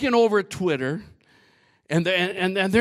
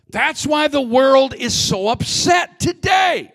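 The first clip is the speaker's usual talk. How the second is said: louder, slower, shouting the point; preaching shout; 4 semitones higher, 3 dB louder than usual. Real, not acted. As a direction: drive it home with a shout.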